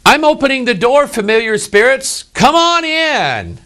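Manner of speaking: high-pitched call, drawing out the final invitation; mock welcome to spirits. Preacher mimicking yoga practitioners inviting familiar spirits, mock high welcome. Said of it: "yoga is like".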